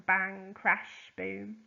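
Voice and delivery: bang and crash punched out loudly, boom dropping back; loud sound words. Shown as a demonstration. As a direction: shout the sound words like explosions. Acting out onomatopoeia examples.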